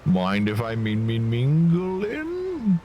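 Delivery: rising, slow southern gatecrasher; southern accent. Acted. Gatecrasher asks to join the bash in a southern drawl. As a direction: drawl the invite to yourself. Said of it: "then he's also southern accent".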